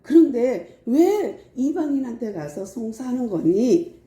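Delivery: a heartfelt plea to quarreling brothers; Paul pleading. Retold or imitated. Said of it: "안타까워서 말을 하는 거예요".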